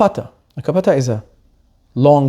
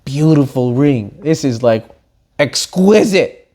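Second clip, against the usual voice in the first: admiring jeweler; 5 semitones lower, slower than usual. Retold or imitated. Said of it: "He's like".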